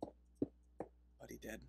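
breathless whisper, slow; whispered repeat. Real, not acted. Repeating the punchline to viewers in a slow hushed whisper. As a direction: whisper it again, drawn out and hushed. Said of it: "repeated as a whisper".

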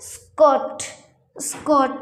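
"স্কট" with a plain k after s, no puff; careful model "স্কট", dry k; unaspirated k. Shown as a demonstration. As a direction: say "স্কট" with ক, not খ. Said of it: "S আসার কারণে হয়ে গেছে".

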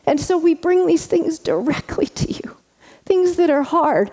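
high breathy prayer whisper; hushed reverent prayer. Acted. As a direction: whisper it straight to God.

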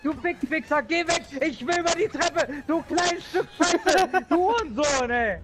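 high, loud gamer rage; worked-up ranting. Real, not acted. Gamer yells at enemy blocking the stairs, real worked-up rant. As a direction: curse out whatever blocks your way, pitch up high. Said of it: "wenn er sich aufregt".

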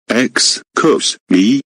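slow, stretched offended question; drawn-out offended. Acted. Boss repeating the insult back, slow and offended. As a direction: stretch it out in disbelief.

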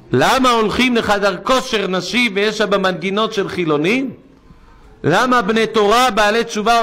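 fiery sermon rebuke; preaching tirade. Real, not acted. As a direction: rail against the congregation's ways.

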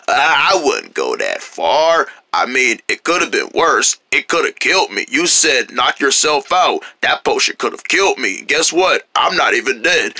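low, unbothered new voice; puberty voice. Acted. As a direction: brush it off in a deep put-on voice. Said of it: "Now you got puberty voice".

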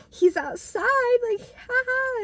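high, slow teasing with a giggle. Retold or imitated. Friend teasing that the crush is outside, high giggly tease. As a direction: tease her about the boy outside.

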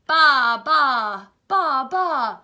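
loud, drawn-out baas; sheep bleating. Acted. Teacher voicing the sheep for children, loud bleats. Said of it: "said the sheep".

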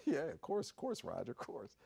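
mock sheepish yes-man, dwindling away; imitated sheepish backing down; sheepish agreement. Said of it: "the guy kinda sheepishly laughs".

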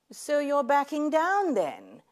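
mock taunting. Taunting the would-be killer.

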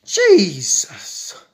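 breathy whispered Jesus; whispered exasperation. Real, not acted. Muttering to herself about the truck, whispered. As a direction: sigh it under the breath.

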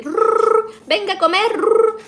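high, loud trilled call to the chickens. Real, not acted. A woman calling her chicks to come eat, high and loud. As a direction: rattle the r and call them in.

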